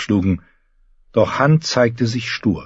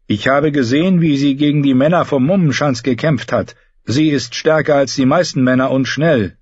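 lightly voiced knight, a little higher; knight speaking up; 5 semitones higher than usual. Knight vouching for the woman fighter to his lord, lightly voiced. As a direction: make a respectful case in a slightly raised pitch. Narrator voices Sir Hyle.

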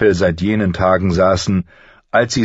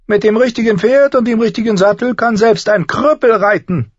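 higher, sly and needling; a higher, sardonic little man's voice; mocking dwarf Tyrion; 5 dB louder than usual. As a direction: talk down to a would-be lord with cool mockery.

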